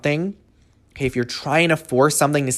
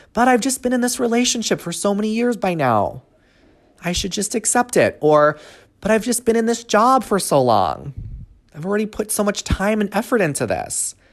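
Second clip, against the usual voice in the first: voice pushed up into a high register; 8 semitones higher than usual. Speaker quoting what clients often say, in a high-pitched voice. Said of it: "Here's that high-pitched voice".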